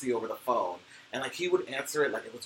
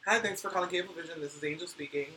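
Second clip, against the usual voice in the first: brisk, slightly raised customer service phone greeting; call center greeting; 4 semitones higher, faster than usual. Shown as a demonstration. To a caller at Cablevision, quick friendly phone greeting. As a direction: answer the line like a cheerful call center agent. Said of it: "how did you pick up the phone?".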